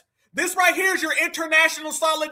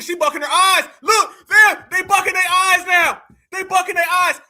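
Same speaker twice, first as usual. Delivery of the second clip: louder, gleeful ridicule; loud mocking; 3 semitones higher, 6 dB louder than usual. Real, not acted. Streamer laughing at a guest on camera, loud and mocking. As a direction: shout it out, loving the moment.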